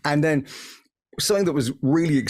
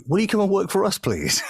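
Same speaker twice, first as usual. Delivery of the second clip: higher plea, dropping on the last word; retold job offer; 10 semitones higher than usual. Disney caller asking the announcer to work for them, eager request. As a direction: play an eager recruiter's request.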